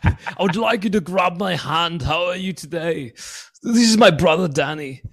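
high mock-English action star; comic accented strongman; Arnold Schwarzenegger. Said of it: "Schwarzenegger with an English accent".

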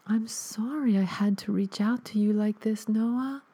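high, soft, whispered ghost voice; a dead mother gently whispering an apology; soft ghostly mother. Acted. Ghost mother apologises to her son Noah, soft high whisper. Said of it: "My mother's voice was soft and delicate".

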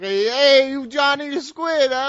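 hammed-up wiseguy threatening a guy in jogging shorts; tough guy mobster. Podcast host mocks his cohost as a Jersey mobster, hammed-up wiseguy menace. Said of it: "This fucking Italian ass motherfucker".

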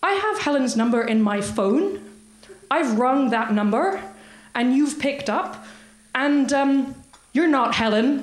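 imitated Northern Irish caller; Northern Irish accent. Puzzled caller insisting she is not Helen, Northern Irish accent. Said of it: "the accent is very difficult to achieve".

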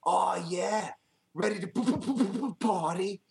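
stuttering threat. Acted. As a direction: try to threaten but keep tripping on the p. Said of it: "had a lisp when he's trying to threaten him".

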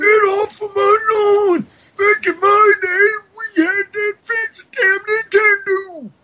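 put-on high, loud cranky old man. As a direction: yell like a grumpy old man. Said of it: "that old man voice is starting to kill my vocal cords".

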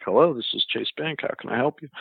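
lightly imitated customer service greeting; a hint of a polite call-center agent. Bank agent answering a support call, lightly voiced customer service. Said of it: "a very customer service voice".

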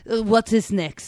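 put-on a flat, unexcited German accent; deadpan German voice asking what comes next. Teasing a friend, German accent. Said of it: "that was an amazing German accent".

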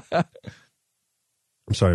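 talking while chewing chocolate; chewing while apologizing; mouth full. Real, not acted. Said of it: "I'm chewing into the microphone".

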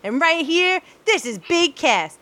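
lightly voiced wrestler promo; Enzo Amore impression. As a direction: hype it up like a wrestler. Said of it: "one of my personal favorites is".

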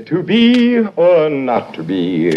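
slow, grand hammed-up Hamlet; Shakespeare recitation. Actor auditioning for the club chairman, a hammy Shakespeare recitation. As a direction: declaim it like a stage actor auditioning. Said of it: "I'll start off with a recitation".

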